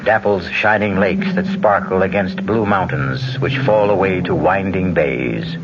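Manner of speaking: slow, brooding storyteller voice; ominous narration. A narrator's reading. Host setting the eerie scene, brooding. Narrates Ireland's dark legends.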